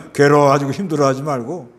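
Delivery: ordinary talk, nothing marked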